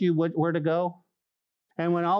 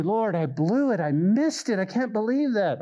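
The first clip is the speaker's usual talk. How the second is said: mock lament; 3 semitones higher than usual. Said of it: "And what do we do?".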